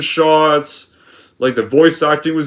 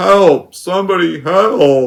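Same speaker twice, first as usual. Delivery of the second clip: forced, fake, weepy put-on sobbing; 2 semitones higher than usual. Imitating a young lion's plea from a film remake: imitating forced crying. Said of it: "just sounds like forced crying".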